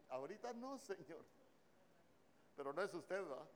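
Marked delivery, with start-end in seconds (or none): 0.1-1.2 mock a reluctant little prayer; imitated church sister. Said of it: "se le escucha la voz cuando está orando".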